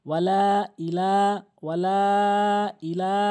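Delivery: লা of ওয়ালা and ইলা held long; drawn-out ওয়ালা. Shown as a demonstration. Teacher showing the madd, long held লা. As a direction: stretch each final লা. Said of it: "একটু তিন আলিফ টেনে পড়বেন".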